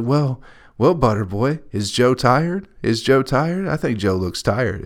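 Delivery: a hint of mom's sing-song dog voice; imitating mom. Mom asking the dog if Joe is tired, lightly mimicked sing-song. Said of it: "It's like".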